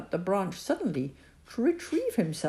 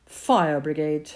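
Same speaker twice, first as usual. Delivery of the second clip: shouting up; 5 dB louder, slower than usual. Acted. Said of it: "his mother shouted up".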